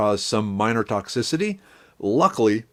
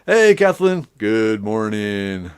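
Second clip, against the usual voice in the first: drawn-out greeting; slower than usual. Real, not acted. Greeting a chatter warmly.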